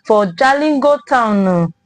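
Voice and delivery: Nigerian Pidgin news delivery. Real, not acted. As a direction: read the news in Naija Pidgin. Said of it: "our Pidgin Headline Review".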